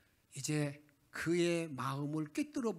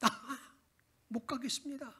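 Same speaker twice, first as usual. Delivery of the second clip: weary Moses. Retold or imitated. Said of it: "너무너무 답답해가지고 하나님께 이렇게 기도합니다".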